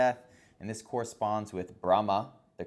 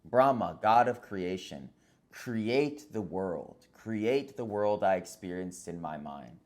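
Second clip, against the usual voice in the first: understated commanding god in a story; Vishnu's mild command. Acted. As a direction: give a measured order, leaning on the opening name. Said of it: "Vishnu commands Brahma".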